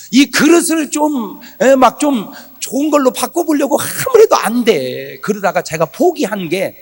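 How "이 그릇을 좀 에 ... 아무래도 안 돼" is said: slow, high preaching. Acted. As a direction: stretch it out like a preacher. Preacher drawn out.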